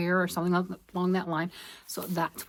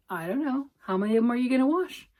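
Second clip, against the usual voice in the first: sassy retort; 4 semitones higher, faster than usual. Retold or imitated. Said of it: "I'm like".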